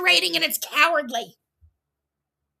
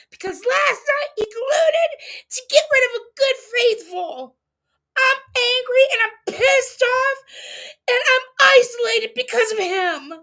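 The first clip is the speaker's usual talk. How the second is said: higher, louder heated complaint; retold anger; 5 semitones higher, 4 dB louder than usual. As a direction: vent it like you are fed up. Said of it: "Says this man".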